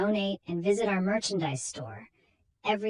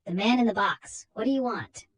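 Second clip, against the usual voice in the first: louder, alarmed question; startled; 4 semitones higher, 4 dB louder than usual. Acted. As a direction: confront him in alarm. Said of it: "she exclaimed".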